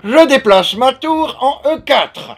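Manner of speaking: loud, high, very slow announcement; doddering old headmaster. Acted. Old man plays chess at a Uno table, grandly slow. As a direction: proclaim it with drawn-out grandeur.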